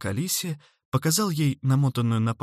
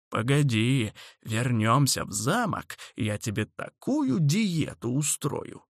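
put-on grumpy old man; 2 semitones higher than usual. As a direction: grumble at her like a cranky old man. Old man scolds Alice.

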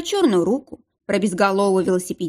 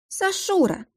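joyful call; 11 semitones higher, slower than usual. A narrator's reading. Darya greets friend joyfully.

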